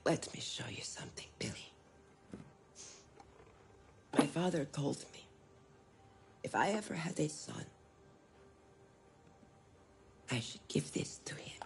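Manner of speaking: put-on soft secretive whisper to a child; tender whisper. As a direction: share a family secret gently. Mother whispers to son.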